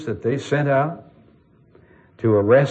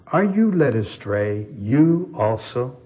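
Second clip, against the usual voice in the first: slow, scornful question; mock them for being fooled; contemptuous anger. Pharisees scorn officers who failed, slow contempt. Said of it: "anger and the contempt in those words".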